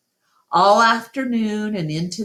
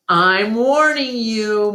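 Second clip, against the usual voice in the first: higher, louder threat; warning; 6 semitones higher, 5 dB louder than usual. A narrator's reading. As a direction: warn her hard, losing patience. Mac threatens elephant.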